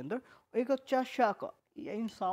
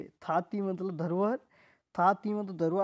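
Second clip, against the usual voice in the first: थाती मतलब धरोहर said slowly, धरोहर lifted; slow repeated drill; 4 dB louder than usual. Shown as a demonstration. Teacher repeating for silent students, slow and insistent. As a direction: spell out थाती मतलब धरोहर, each word slow and clear. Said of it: "भाई मैं भी परेशान हो गया बोल बोल के".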